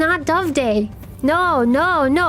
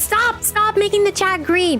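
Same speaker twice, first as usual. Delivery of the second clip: flustered plea; 6 semitones higher than usual. Real, not acted. Begging chat to stop donating.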